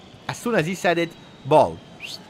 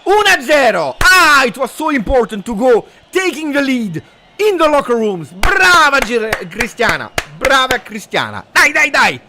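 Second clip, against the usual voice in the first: huge, long high goal shout; goal celebration scream; 12 semitones higher, 8 dB louder than usual. Real, not acted. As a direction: explode with joy as the ball goes in. Torjubel beim Elfmeter.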